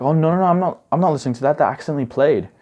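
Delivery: rushing to defend himself, caught out; flustered denial. Retold or imitated. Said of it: "I was like".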